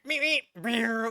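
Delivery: imitated cartoon meep and zoom; quick playful cartoon sound effect; Roadrunner beeps. Reactor mimicking the skier as the Roadrunner, cartoon beeping. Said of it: "he's like the Roadrunner".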